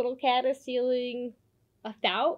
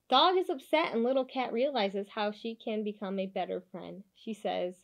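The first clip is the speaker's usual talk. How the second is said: put-on lively storybook narration for kids; animated picture-book read-aloud; reading to children; 4 dB louder than usual. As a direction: read it like bedtime story time.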